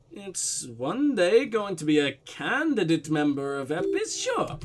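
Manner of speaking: slow, drawn-out Russian-German blend; Russian-German accent. Acted. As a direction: put on a mixed Russian-German accent and stretch it out. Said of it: "weird blend of Russian and German".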